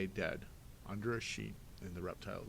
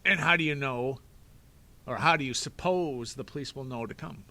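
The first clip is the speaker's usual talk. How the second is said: louder, scornful villain voice; mocking villain; 3 semitones higher, 10 dB louder than usual. Stefano scoffing at Klaus about the police. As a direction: scorn the boy's plan.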